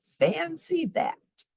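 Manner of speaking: put-on very high, slow little old lady marvelling. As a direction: squeak it like a tiny amazed old woman. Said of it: "said the little old lady".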